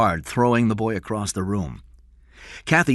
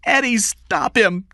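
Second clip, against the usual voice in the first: louder, higher, slow urgent cry for help; shouted; 8 dB louder than usual. A narrator's reading. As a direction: beg him to stop it, alarmed. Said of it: "Kathy shouted".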